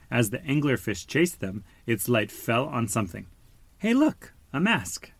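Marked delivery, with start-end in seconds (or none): 3.8-5.1 very high shouted discovery; shouting. A narrator's reading. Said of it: "Dory shouted".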